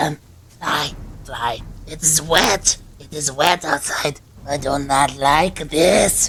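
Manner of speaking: tiny, small, kept-little creature voice. After being told to fly up and report back, answering in a little voice. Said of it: "You hear the little voice".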